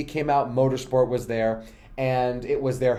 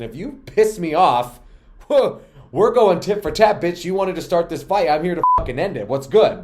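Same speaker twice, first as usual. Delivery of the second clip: loud, heated challenge; worked-up anger; 4 semitones higher, 5 dB louder than usual. Real, not acted. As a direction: fire it out like picking a fight. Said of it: "Sorry, y'all, I'm mad".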